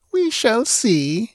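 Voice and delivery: slow, high, self-assured reply; cool confidence. A narrator's reading. Captor confident of her power over men, coolly. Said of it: "answered the Stygian coolly".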